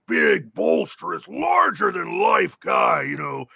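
big bombastic booming voice, stretched out. Retold or imitated. Actor describing Daruk's voice, booming and bombastic. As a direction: puff up into a huge bombastic giant.

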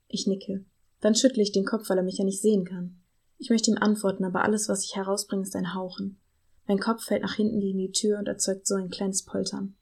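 calm, even read-aloud voice; story narration. A narrator's reading. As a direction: read the novel excerpt steadily to listeners. Liest eine Romanpassage vor. (ruhige Vorlesestimme)

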